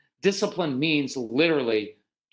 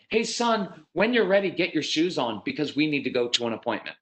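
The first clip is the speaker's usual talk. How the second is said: mock everyday call to a child; wrong-way parental request. Shown as a demonstration. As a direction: hurry a child along, lightly acted. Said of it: "ever, ever use it this way".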